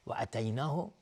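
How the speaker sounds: "اتیناه" with short first a; wrongly short vowel. Shown as a demonstration. Teacher warns meaning changes, "اتیناه" with short a. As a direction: drop the lengthening at the start of "اتیناه".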